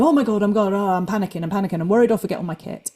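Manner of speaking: mild mock panic, speeding up; acted inner panic. Coach voicing the worrier in their head, mild panic. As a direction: play at fretting, tumbling into a rush. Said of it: "me kind of talking to myself in my head".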